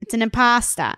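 light Jersey punchline; Jersey accent. Shown as a demonstration. Podcaster replaying the pasta joke, Jersey accent. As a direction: demonstrate the joke with a touch of Jersey. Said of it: "that Jersey accent just".

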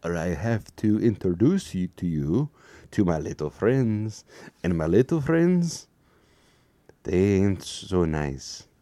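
a bad mobster threatening his audience; horrible gangster voice. Vlogger hamming a bad gangster at viewers, menacing. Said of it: "That was a horrible voice".

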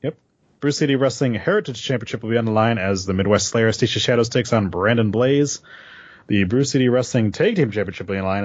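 upbeat event announcement read; promo read. Acted. Reads promo for wrestling show.

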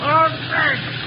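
high, loud exclamation; urgent shout. Acted. Timber boss working the reverse, shouting urgently. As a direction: shout it in the thick of danger. Acting urgently on runaway train.

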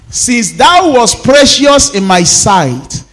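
slow, solemn scripture read. Acted. Pastor reading Isaiah to congregation, slow and solemn. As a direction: draw out each word of the verse.

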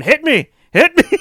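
high, loud goading yell of hit me; mock shouted taunt. Brother goading brother into a punch, loud mock shout. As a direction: shout it like egging on a fight. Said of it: "keeps pushing him and saying".

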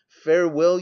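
shouted farewell. A narrator's reading. Departing man shouting farewell to his tempters. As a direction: hurl it back from the doorway. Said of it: "he shouted".

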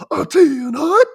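high, loud barked command; strained high shout calling troops to attention; drill sergeant. Acted. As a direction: bark it like a cartoon drill sergeant. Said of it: "huge drill sergeant shows up and he goes".

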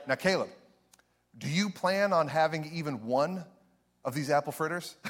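a hint of a stern aunt; aunt suddenly warning her nephew. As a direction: drop into a warning tone. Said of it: "the voice changed".

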